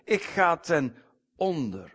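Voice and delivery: high and loud, a prophet's cry of woe; anguished cry. A narrator's reading. Isaiah crying out before God's throne, loud lament. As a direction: wail out Wee mij, high and loud. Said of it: "En toen zeide ik".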